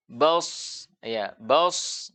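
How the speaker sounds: "bas" with thick vowel and long hissing s; napas mengalir. Shown as a demonstration. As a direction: let the breath run out on the s of "bas". ("bas" dengan desis s tebal mengalir)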